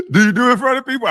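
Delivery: lightly mocking imitation, pitched high; mimicked stern questioner. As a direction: mimic an insistent interrogator in a high voice. Mimics the questioner from played clip.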